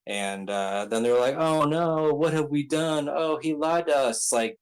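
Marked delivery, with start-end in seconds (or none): 1.4-4.2 higher and louder, acting out panicked goons; mock panic. Goons realizing their boss poisoned them, mock panic. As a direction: gasp it out like fooled henchmen.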